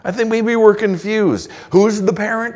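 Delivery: high mock-ironic questions from God; God's rebuke. Preacher voicing God questioning Israel, ironic. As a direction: needle them with pointed questions. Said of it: "God is saying".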